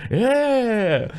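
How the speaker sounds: high, hammed-up cheering shop owner; mock excited cheer. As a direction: whoop it up like a fan. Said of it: "he's like".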